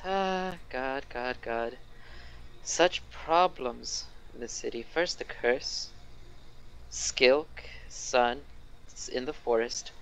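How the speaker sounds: slow, sighing mayor lamenting his troubles; a lightly voiced tired official, dragging the words; mayor musing aloud by the fireplace, slow and put-upon; weary mayor. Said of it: "the mayor kinda sighs".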